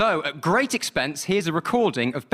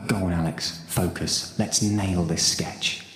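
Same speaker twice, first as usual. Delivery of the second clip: low self pep talk; 8 semitones lower, slower than usual. Acted. Psyching himself up, low.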